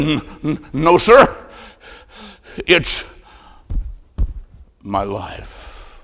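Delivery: a dying man forcing out each word; struggling whisper. A narrator's reading. Dying man answering at his bedside, faint and halting. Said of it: "In just a whisper, he said".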